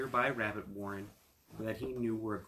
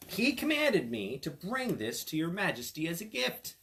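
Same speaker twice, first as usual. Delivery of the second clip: the cat speaking; 7 semitones higher, 5 dB louder than usual. Acted. Cat addresses the king.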